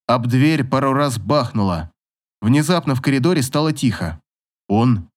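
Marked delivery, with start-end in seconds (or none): none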